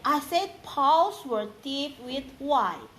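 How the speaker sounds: paws stressed, slowed; slow corrective repeat. Real, not acted. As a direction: spell it out slowly. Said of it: "child mishears".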